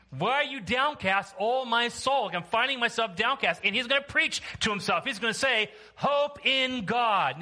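high, emphatic pulpit delivery; preaching. Real, not acted. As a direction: proclaim the psalm to the congregation. Preaches psalm at full voice.

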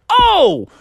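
very high, acted thrill; delighted cry. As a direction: burst out overjoyed. Dad delighted at finding diamonds.

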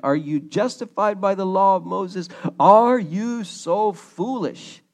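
confrontational. Acted. Paul challenging the Galatian believers on the law, confrontational.

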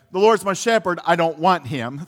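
lightly voiced kid's misreading of the psalm; mock child mishearing. Pastor recalling his childhood mishearing, lightly mock-childish. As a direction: say it like a little kid who got it wrong. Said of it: "That's what I thought he said when I was a little kid".

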